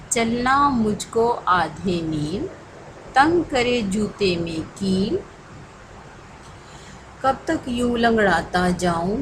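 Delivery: slow rhythmic Urdu poem recital; poem recitation. Acted. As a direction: recite the poem slowly for children to follow.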